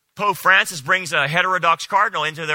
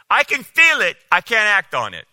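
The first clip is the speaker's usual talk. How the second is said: mock congregation call; 4 semitones higher, 4 dB louder than usual. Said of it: "Everybody say".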